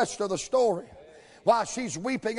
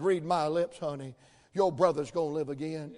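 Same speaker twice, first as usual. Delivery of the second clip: calm reply; 6 semitones lower, 4 dB quieter than usual. Retold or imitated. Voices Jesus calmly answering Martha.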